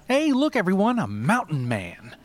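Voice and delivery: bright high announcement to the group; announcing. A narrator's reading. Guide announces to his guests, high and excited.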